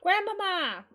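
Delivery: high, loud cry of alarm. Acted. Girl to collapsing grandmother, alarmed cry. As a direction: call out in sudden panic.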